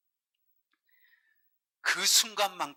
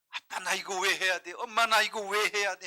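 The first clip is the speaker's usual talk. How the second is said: put-on whining child; 5 semitones higher, 4 dB louder than usual. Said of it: "하면서 막 어려움을 토할 때".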